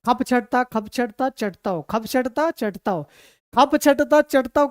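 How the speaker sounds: put-on rhythmic chugging of an old coal train; mock train chugging sound; steam train imitation. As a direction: chant it like a puffing steam engine. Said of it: "तो उसका आवाज़ ऐसे थे".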